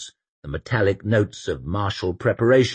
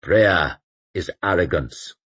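intoning. Acted. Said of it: "intoned Joubert".

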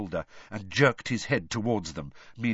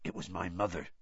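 quiet, softer Hagrid; 4 semitones lower, 9 dB quieter, faster than usual. A narrator's reading. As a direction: say it quietly, sadly. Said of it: "said Hagrid quietly".

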